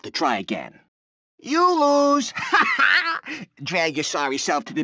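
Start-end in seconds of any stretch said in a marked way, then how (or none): 1.4-2.3 laughing it out, mocking; gloating laugh. Host mocking the losing player, laughing. 2.4-3.6 short taunting laugh; mocking laugh. Host laughing at the player who lost, mocking.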